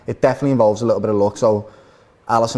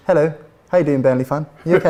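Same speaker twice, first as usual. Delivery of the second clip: a lightly put-on posh English accent. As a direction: try a posh English accent, half-hearted. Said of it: "give us your posh accent".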